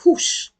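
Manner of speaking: imitated whoosh of a sliding door. Shows the door opening back up, imitated whoosh. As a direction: make a quick airy whoosh noise.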